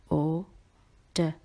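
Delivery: "O-D-O-R-I-U-M" slowly as au, di, to, ri, um; broken into syllables. Shown as a demonstration. Teacher helping students remember the spelling, syllable by syllable. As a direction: separate each syllable of auditorium with clear pauses. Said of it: "Break the word up".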